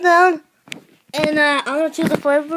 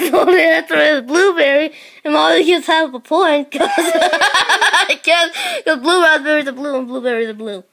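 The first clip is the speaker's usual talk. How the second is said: laughing. Real, not acted. Laughing while scoring the game.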